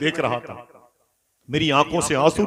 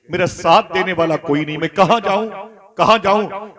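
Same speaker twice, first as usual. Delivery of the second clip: rising to a higher, louder wail; anguished plea; 4 semitones higher, 5 dB louder than usual. Acted. Child pleading to his dying mother, building to a louder wail. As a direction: cry out where do I go, building.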